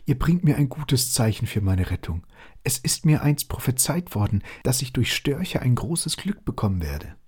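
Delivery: high, joyful owl cry. Acted. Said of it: "rief sie".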